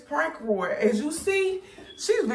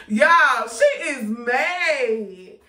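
laughing; 5 dB louder, much slower than usual. Real, not acted. Laughing report.

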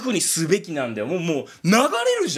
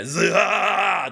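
Blackbeard growl; much slower than usual. Shown as a demonstration. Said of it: "黒ひげのモノマネすると".

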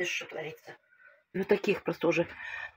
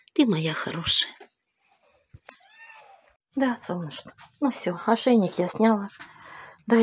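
шёпот; 3 semitones higher than usual. Real, not acted. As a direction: whisper to calm a dog. Шепчет собаке. (нежный шёпот)

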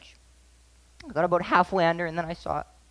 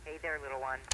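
soft demo; 3 semitones lower, 10 dB quieter than usual. Shown as a demonstration. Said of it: "you can practice it".

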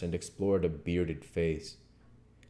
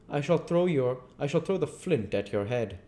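raised, firm voice of an unseen menace; threatening invisible Voice; 9 semitones higher, 4 dB louder than usual. Acted. Invisible man threatens the tramp, firm and menacing.

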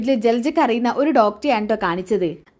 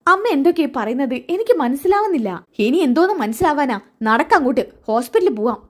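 a mother scolding her daughter, pitched up; scolding mother voiced higher; 3 semitones higher than usual. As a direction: raise the voice for the mother's upset scolding. (ഉയർന്ന സ്വരത്തിൽ ശകാരിക്കുന്ന അമ്മ)

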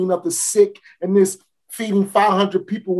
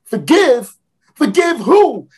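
scoffing disbelief; 4 semitones higher, 4 dB louder, slower than usual. Acted. Scornful disbelief.

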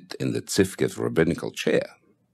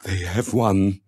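sudden cry; 4 semitones higher, slower than usual. A narrator's reading. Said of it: "he opened an eye and cried out".

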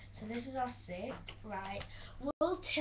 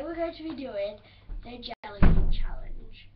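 big announcement; 14 dB louder than usual. Real, not acted. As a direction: announce it like a game show. Announcing the video's challenge.

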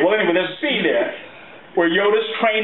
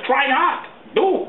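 1 rising Yoda; 5 semitones higher, much slower than usual. Retold or imitated. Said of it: "He said".

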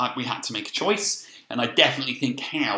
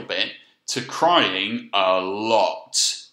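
drawn-out, weighted "crying a lot"; stretched out for emphasis; 3 semitones lower, much slower than usual. Shown as a demonstration. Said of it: "a scale from meaning crying just a little".

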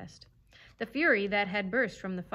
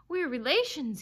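mildly urgent, raised plea; insistent pleading; 6 semitones higher, 5 dB louder than usual. A narrator's reading. Fox begging kin for mercy, pleading. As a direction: press the appeal, higher and louder. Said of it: "he pleaded".

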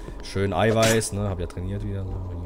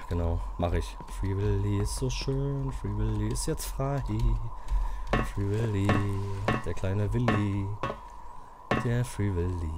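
soft soothing self-talk; 3 semitones lower, 5 dB quieter than usual. Real, not acted. Soothing himself with Free Willy.

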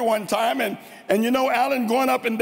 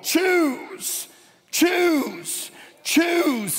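each choose cried high and falling; pleading repetition; 6 semitones higher, much slower than usual. Acted. Joshua urging God's people to choose, choose cried high. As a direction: stretch each choose as a plea.

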